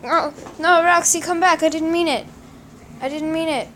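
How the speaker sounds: loud, high begging; pleading cry. Pretend. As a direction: beg the cat to come back. Pleading with fleeing cat.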